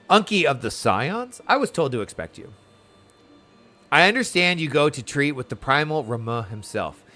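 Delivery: lightly acted formal quest-giver; dialogue read aloud. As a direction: read it as measured, courteous game dialogue. Reads game character's dialogue aloud.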